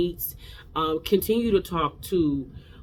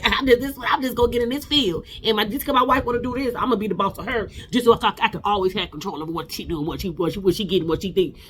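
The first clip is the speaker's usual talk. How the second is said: higher mocking voice of the husband; mocking whiny husband; 4 semitones higher than usual. Reacting to Glenn, mocking the husband's control. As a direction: lampoon him as a whiny controlling man.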